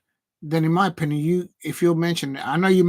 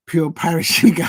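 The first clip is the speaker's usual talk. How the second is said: laughing; 6 dB louder than usual. Real, not acted. Mocking the club owner.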